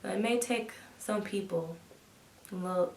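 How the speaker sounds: put-on calm older woman's voice, measured; a lightly voiced older pioneer; Annie J Easley. Actress plays Annie Easley recalling her NASA years, measured storytelling. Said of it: "an homage rendition to Annie J Easley".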